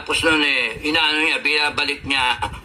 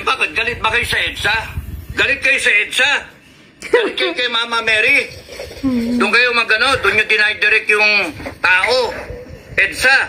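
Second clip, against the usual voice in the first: heated questioning; 5 semitones higher than usual. Real, not acted. Heated rhetorical questions to protesters.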